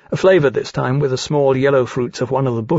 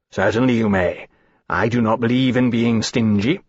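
particularly gracious; 2 semitones lower than usual. A narrator's reading. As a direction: grant it magnanimously, pleased with yourself. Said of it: "in what he felt was a particularly gracious way".

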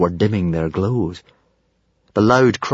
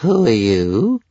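dazed dragon voice; 3 semitones higher, slower than usual. Acted. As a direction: ask blankly as the dragon. Stormfly's voice.

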